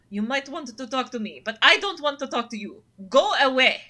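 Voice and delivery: haughty cat voice building to a loud go away; cat snapping back. Acted. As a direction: brush them off, then shout them away. Cat Frou Frou rebuffs player.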